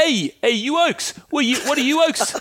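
hammed-up South African "oaks" greeting; South African accent. Shown as a demonstration. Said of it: "instead of, uh, bloke, they use".

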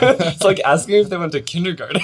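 talking through laughter; laughing. Real, not acted. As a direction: laugh while saying it. Laughing retelling friend's joke.

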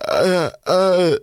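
high, wordless mock sobs; imitated crying. Son on the phone to mom, imitated wordless crying. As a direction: imitate being too choked up to speak. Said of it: "she just heard me crying".

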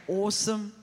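loud Australian exclamation; Australian accent. Shown as a demonstration. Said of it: "Now you're sounding really Australian".

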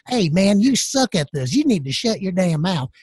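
lazy Southern redneck twang. Retold or imitated. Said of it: "this weird redneck voice".

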